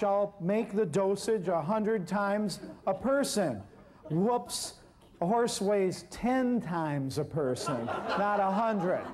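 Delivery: amused at his own blunder, laughing it out; laughing about the overdose mistake. Real, not acted.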